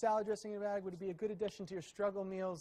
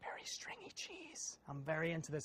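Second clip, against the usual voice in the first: hushed whisper, quieter; 3 semitones lower, 7 dB quieter than usual. Tasting hot pizza with stringy cheese, excited by it: whispering. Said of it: "I don't know why I'm whispering".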